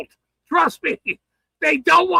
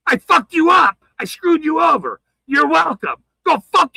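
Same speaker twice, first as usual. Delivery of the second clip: angry shout; 4 semitones higher, 3 dB louder than usual. Real, not acted. Angry rant at enemies.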